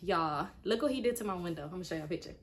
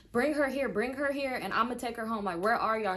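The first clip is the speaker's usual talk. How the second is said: retold yell; 3 semitones higher, 3 dB louder than usual. Mother on speakerphone demanding her son bring the girlfriend: loud and commanding. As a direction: bark the order to bring her over.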